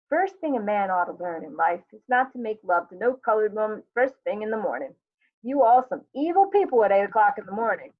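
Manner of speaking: mildly exasperated husband sounding off; lightly acted morning complaint; grumbling husband Walter. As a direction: grumble at your wife about mornings.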